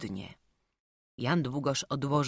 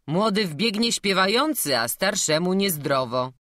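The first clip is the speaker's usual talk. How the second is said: louder, deferential gatekeeper; courteous doorkeeper; 3 semitones higher, 5 dB louder than usual. Acted. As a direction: urge the old priest to rest politely.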